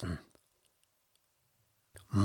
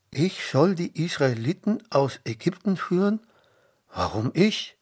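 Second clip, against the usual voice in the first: quick, higher incredulous question; startled; 6 semitones higher, 3 dB louder, faster than usual. A narrator's reading. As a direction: protest in mild alarm. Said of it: "fragte Mose erschrocken".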